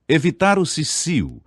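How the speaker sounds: ordinary talk, nothing marked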